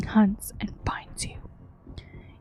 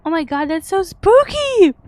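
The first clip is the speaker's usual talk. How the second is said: high, loud spooked squeal; excitedly creeped out, pitch shooting up; spooked excitement; 7 semitones higher, 7 dB louder than usual. Real, not acted. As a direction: burst out, thrilled by the creepy monster. Player reacting to spooky monster.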